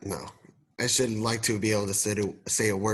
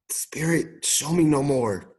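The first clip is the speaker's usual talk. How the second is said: sighing plea; 3 semitones higher, slower than usual. Acted. Scrooge begs again, sighing.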